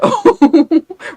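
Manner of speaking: loud, high-pitched laughing whoop. Real, not acted. Coach rallying people to stop making excuses, high whoop. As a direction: let out a high, loud "ooh".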